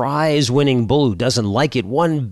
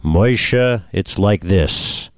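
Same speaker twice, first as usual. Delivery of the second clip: booming voice; 3 semitones higher, slower than usual. Acted. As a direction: boom it out like God from the heavens. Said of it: "and a booming voice says".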